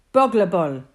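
"Bugler Bull" said as BUG-ler BULL, a short u in both words; baby mispronunciation. A narrator's reading. Baby copying Bill's name badly, "Bugler Bull" with short u sounds. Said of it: "says the baby".

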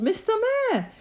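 high, insistent rallying call; calling out urgently. A narrator's reading. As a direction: urge the mayor on with rising pressure. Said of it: "Horton called".

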